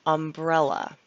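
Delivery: "Umbrella" with the weight on the second syllable, brel; stress on umbrella. Shown as a demonstration. Teacher showing learners where the stress falls in "Umbrella". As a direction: lean on the E in "Umbrella". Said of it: "with the accent on the E".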